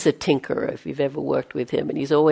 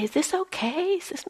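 high anxious question; 12 semitones higher, 6 dB quieter than usual. Retold or imitated. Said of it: "a lot of people come and say".

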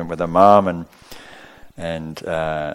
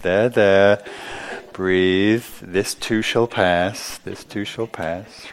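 soothing; much slower than usual. Pretend. Soothing oneself in distress.

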